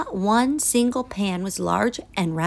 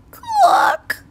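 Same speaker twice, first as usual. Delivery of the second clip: high clucking squawk; hen cluck. A narrator's reading. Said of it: "she said".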